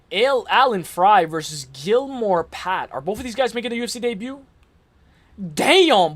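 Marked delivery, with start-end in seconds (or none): 5.5-6.1 surprised damn. Real, not acted. Surprised both fighters are debuting.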